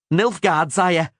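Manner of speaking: terrified soldier begging; panicked scream. A narrator's reading. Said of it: "the soldier screamed".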